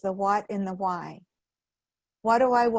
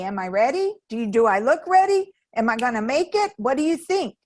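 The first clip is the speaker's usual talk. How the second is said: nervous fire-walker; 4 semitones higher, 4 dB louder, faster than usual. Retold or imitated. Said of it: "stop and ask me".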